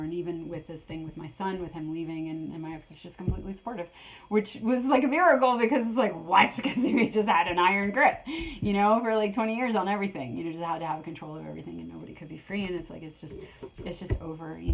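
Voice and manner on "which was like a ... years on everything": amazed. Real, not acted. Ex supportive, a miracle.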